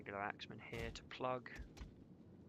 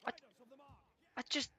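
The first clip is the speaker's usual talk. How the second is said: higher and louder, fed-up rant; venting at the mess, pitched up and loud; exasperated outburst; 13 semitones higher, 9 dB louder than usual. Real, not acted.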